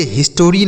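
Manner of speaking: "हिस्टोरी" with an extra O before the final ree; mispronounced history. Shown as a demonstration. Teacher shows pupils the wrong reading, mispronounced "हिस्टोरी" with an added O. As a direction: say "हिस्टोरी" in three syllables, his-to-ree. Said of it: "नहीं पढ़ा जाएगा".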